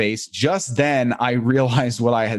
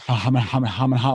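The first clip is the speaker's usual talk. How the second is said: nervous fake laugh. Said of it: "like Ralph Kramden".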